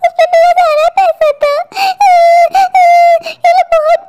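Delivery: mildly whining, tearful lament; tearful complaint. Acted. Robbed woman telling a passer-by her troubles, tearful. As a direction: pour out the loss with sobs between phrases. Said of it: "अरे आप मत रोएं".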